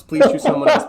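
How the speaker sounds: high, loud nervous plea; panicked patron. Acted. Tavern patron dreading the robot's visit, high and panicked. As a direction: beg under your breath to be passed over. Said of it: "They kind of all just go like".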